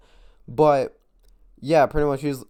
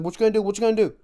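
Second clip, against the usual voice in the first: higher, louder mock taunt; retold taunting challenge; 8 semitones higher, 5 dB louder, much faster than usual. Boyfriend daring the classmate he just slapped, retold as a taunting challenge. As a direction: imitate him egging you on, pitched up and loud. Boy taunting before a fight.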